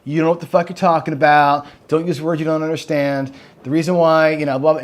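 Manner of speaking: mimicking a snarky know-it-all, lightly put on; a touch of sneering superiority; snarky math guy. Online math guy scolding a video maker, mildly snarky. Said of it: "the guy comes out super snarky".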